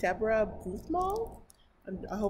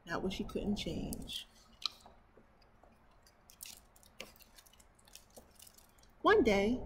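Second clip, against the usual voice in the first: story narration; 2 semitones higher, 4 dB louder than usual. Acted. Reading a picture book to her viewers, storybook narration. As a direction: read it aloud to children.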